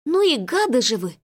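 indignant, feeling-laden reproach; heartfelt outburst. A narrator's reading. Lola scolding the two pranksters, indignant. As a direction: let them have it with feeling. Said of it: "с чувством высказалась Лола".

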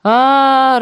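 high, let-down "ah"; high auntie voice, mildly let down; disappointed drawl. A narrator's reading. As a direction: draw it out in mild disappointment. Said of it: "разочарованно протянула Валентина".

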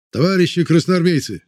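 a high, loud call to the whole crowd; loud shout. A narrator's reading. Chekist addressing freed prisoners, loud rallying shout. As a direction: shout it so the back rows hear. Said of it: "громко как мог кричал чекист".

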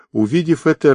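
ordinary delivery, nothing marked

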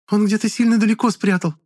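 put-on high, thin, bewildered girl's voice; confused girl. A narrator's reading. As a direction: squeeze it out, at a loss. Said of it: "растерянно выдавила та".

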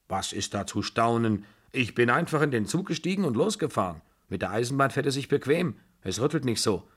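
a touch of brusque, self-assured grandmother; imperious old aunt. Acted.

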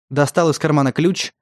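ordinary delivery, nothing marked

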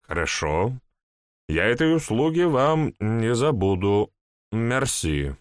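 put-on town drunk. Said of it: "полупьяный голос".

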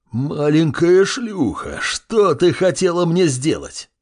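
slow, high-pitched menacing roar; enraged villain. A narrator's reading. Flaming boss turns on the girl who shot, enraged. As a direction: drag out the threat in a furious character voice.

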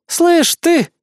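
high, aggressive challenge; Bismarck's hostile snarl. A narrator's reading. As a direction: call him out with open hostility. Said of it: "Бисмарк злобно зыркнула на меня".

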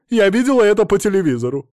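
loud, high, fast insistence; high quick retort; indignant. Acted. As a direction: snap it back.

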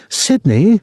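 put-on high-pitched girl's cry; shrill call. A narrator's reading. Girl to her soldier boyfriend mid-fight, shrill call. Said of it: "the girl called shrilly".

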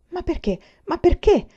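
high-pitched, baffled repeated question; stammering bewilderment. A narrator's reading. Student stammers at his sudden arrest, bewildered. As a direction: protest as if barely able to speak. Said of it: "balbettai, quasi incapace di parlare".

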